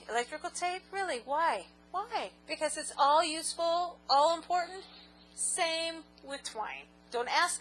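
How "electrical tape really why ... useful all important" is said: high disbelieving questions; incredulous. Real, not acted. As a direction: sound baffled. Incredulous about electrical tape.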